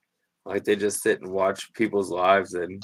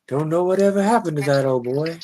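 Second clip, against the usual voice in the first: put-on creepy small-town accent, pitched high and loud; hammed-up Stephen King country accent, higher voice; creepy hometown accent; 7 semitones higher, 5 dB louder than usual. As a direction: imitate a creepy old hometown local's accent. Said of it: "his accent is just creepy".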